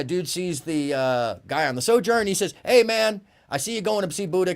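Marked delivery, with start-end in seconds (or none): 2.7-4.5 calling out. Retold or imitated. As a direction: shout across the street like a happy drunk. Drunk partier calls out.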